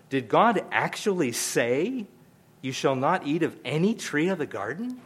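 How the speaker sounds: lightly voiced serpent sowing doubt; sly doubting serpent. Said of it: "put a little emphasis on it about how he probably said it".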